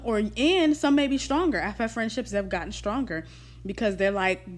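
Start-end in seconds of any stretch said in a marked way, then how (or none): 1.6-4.6 talking while chewing gum. Real, not acted. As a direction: chew gum as you speak. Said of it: "Sorry, I'm chewing gum".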